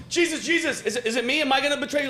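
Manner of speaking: anxious disciple. Retold or imitated.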